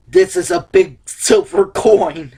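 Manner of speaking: slow pirate growl; lightly voiced pirate. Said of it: "you're talking like a pirate".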